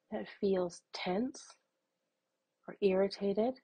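measured meditation voice with long pauses; unhurried, even guidance, leaving room to breathe; guided meditation. Acted. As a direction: guide them gently through noticing anger.

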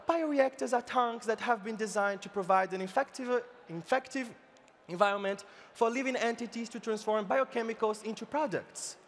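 mock British lecturer explaining; put-on British accent. Lady Bai explaining bioreactors to baffled cows, mock British accent. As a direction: explain it in a careful, affected British English. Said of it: "explained with her British accent again".

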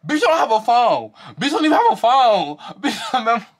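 high mocking quote dissolving into laughter; dying laughing. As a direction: imitate the taunt while cracking up. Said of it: "That shit had me fucking dying".

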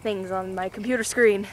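breathless from walking; slightly winded while talking; out of breath. Real, not acted. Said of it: "Now I'm out of breath".

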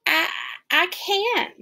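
halting high stammer; hesitant stammer. Acted. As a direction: start to refuse, then falter. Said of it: "started to say".

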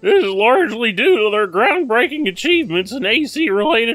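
mock formal announcer read. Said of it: "I suddenly just have this voice on".

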